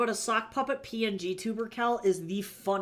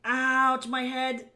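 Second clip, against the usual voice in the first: grumbling; 7 semitones higher, 5 dB louder, much slower than usual. Acted. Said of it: "I grumbled as I sat up".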